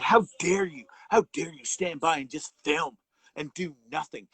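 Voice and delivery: mock-outraged scolding, loud on the opening; retold outrage, hitting "How dare you"; indignant accusation. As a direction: imitate an accuser laying into someone. Retells accusers attacking the bystanders.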